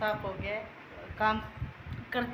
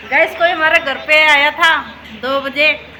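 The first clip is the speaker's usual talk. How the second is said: excited slow laughing; 7 semitones higher, 16 dB louder than usual. Real, not acted. Laughing, excited report to viewers.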